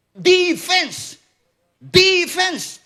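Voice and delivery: high, loud arena chant; fan's shout. Retold or imitated. Preacher re-enacting his cheering at a basketball game, fan's shout. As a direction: belt it out like a basketball fan. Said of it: "Pati ako, napapasigaw na eh".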